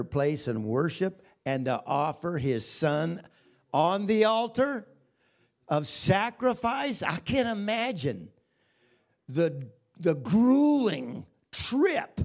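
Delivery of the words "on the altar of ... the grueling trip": raised, emphatic preacher's delivery; preaching. Acted. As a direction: preach it out, leaning on the big words. Preaches at full force.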